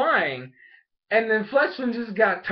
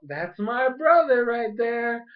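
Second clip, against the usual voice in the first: drawn-out sisterly remark; 4 semitones higher, slower than usual. Retold or imitated. Bonnie remarking on her brother.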